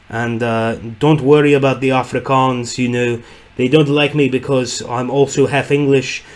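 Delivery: lightly attempted South African accent. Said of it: "trying to recreate a South African".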